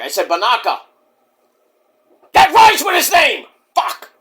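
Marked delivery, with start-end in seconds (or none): 2.3-4.1 high, outraged shout; Mike. Pretend. Wrestler enraged by a rhyme with his rival's name, shouted impression. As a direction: explode loudly, then curse. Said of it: "I'm sorry, Mike".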